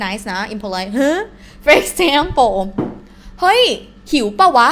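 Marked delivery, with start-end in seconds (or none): 3.0-4.7 a loose, offhand call to a buddy, pitched high on hey; very casual. Shown as a demonstration. Teacher calling to a friend, casual and rough. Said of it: "saying it in a very casual way".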